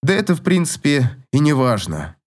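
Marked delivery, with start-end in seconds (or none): none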